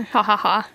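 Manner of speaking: stiff, even mechanical ha ha ha; robot laugh. Pretend. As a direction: laugh like a robot, each ha the same. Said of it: "That robot laughter is always a dead giveaway".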